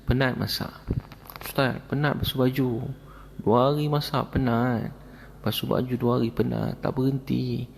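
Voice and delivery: retold weary complaint, pitched a little high; a touch of plaintive whining; mild mock crying. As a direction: lightly imitate a tearful, worn-out man. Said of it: "Pakcik, kenapa nangis?".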